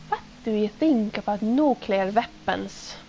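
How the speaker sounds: put-on lightly done Finnish-accented English, flat and even; a mild mock Finnish accent for a reporter's question. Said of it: "that's the Moomin accent".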